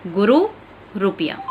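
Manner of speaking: "गुरु" and "रुपया" said with a short, clipped उ after र; short ु in "गुरु", "रुपया" demonstrated; short u demo. Shown as a demonstration. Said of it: "इसका उच्चारण होता है".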